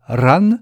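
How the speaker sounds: "ran" said with force and drawn out; stressed syllable. Shown as a demonstration. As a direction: lean on "ran" and hold it long. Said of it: "est accentuée par son intensité".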